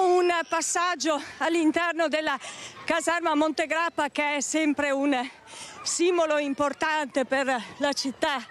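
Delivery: panting while running; breathless live report; out of breath. Real, not acted. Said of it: "Scusate il fiatone".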